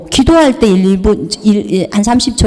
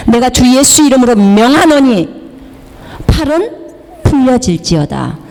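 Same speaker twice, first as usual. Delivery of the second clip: firm, declaratory healing command; commanding prayer; 2 semitones higher than usual. Retold or imitated. Praying for a brother's arm in Jesus' name, commanding. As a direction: pronounce it with authority over the arm. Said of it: "예수 이름으로 명령한다고".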